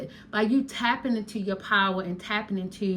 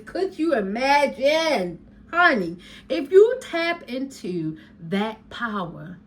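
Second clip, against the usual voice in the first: drawn-out could you imagine; 3 semitones higher, 4 dB louder than usual. Shown as a demonstration. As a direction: lean in and savour "imagine, honey". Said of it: "and I say it like this".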